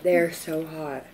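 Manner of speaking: talking through burning spicy noodles; eating spicy noodles. Real, not acted. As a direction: speak with a mouth on fire. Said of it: "My throat is on fire".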